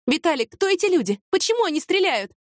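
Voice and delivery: high, anxious questions; frightened questioning. A narrator's reading. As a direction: pitch rising with alarm. Frightened questions under gunfire. (испуганно, высоким голосом)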